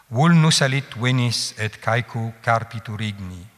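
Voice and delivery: hexamètre latin en rythme régulier; vers latin scandé. Shown as a demonstration. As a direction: marquer chaque pied, tenir les longues. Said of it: "toujours le même rythme". (latin scandé en mesure)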